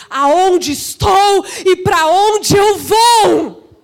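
slow, stretched-out proclamation; full-force preaching. Real, not acted. Preacher voicing Pedrão's new certainty, slow and emphatic. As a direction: draw each word out to a ringing finish.

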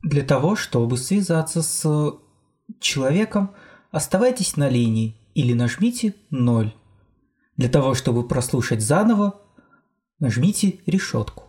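robotic automated phone menu announcement. Retold or imitated. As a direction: read it like a recorded hotline prompt. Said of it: "это прошловековой такой".

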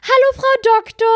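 put-on high, loud excited little-boy call; excited child calling out. Mother imitating her son greeting the doctor, a high loud child's call. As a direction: call it out like a toddler running to the doctor. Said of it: "also wirklich gerannt und hat gerufen".

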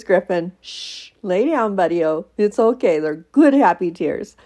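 calm the dog down; soothing the dog. Real, not acted.

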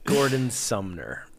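slow hushed whisper. Real, not acted. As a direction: whisper it like a secret. Whispered trivia reveal.

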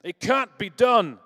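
loud, high, slow Boston tough guy; Boston heist accent. Pretend. Preacher voicing heist movie robber in mock Boston accent. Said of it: "Sorry for the accent".

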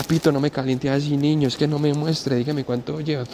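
a hint of a jittery thief urging; nervous robber. The thief telling Pito to put the phone away, hushed and high.

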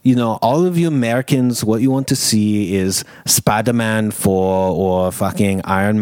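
put-on German accent. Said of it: "Your German accent's really off-putting".

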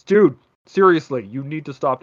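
understated exasperated warning. Retold or imitated. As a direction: press it out with worn-thin patience. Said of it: "And you're just like".

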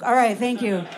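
ordinary talk, nothing marked

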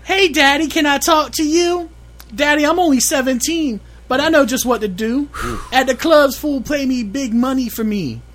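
put-on high girly voice, a man in falsetto; man doing a woman's voice. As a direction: pitch way up like a teenage girl. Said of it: "do you want me to do a girl voice".

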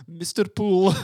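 a keen little call of the name, lightly voiced; a hint of an eager cab driver; imitating the taxi driver. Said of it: "he's like".

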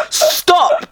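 high-pitched "stop" through laughter; mock plea. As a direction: retell a helpless, laughing plea. Retold plea while laughing.

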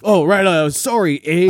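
a hint of Canadian accent, sorry eh; light Canadian accent put on; mock Canadian accent. Mocking a rapper as a Canadian, light Canadian accent. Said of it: "I'm Canadian".

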